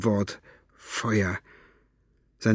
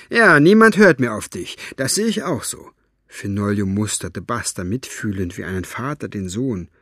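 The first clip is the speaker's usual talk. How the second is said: put-on wry old storyteller. Fenoglio's wry reply.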